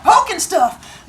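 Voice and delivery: put-on high, slow goofy kid voice. Teacher voices Ricardo caught poking walls, high slow goofy kid. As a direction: play the clueless student, drawn out. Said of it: "And he was like".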